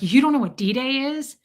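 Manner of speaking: mildly indignant mock question; retold anger. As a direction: imitate an angry man's incredulous question. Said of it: "This guy was really mad at me".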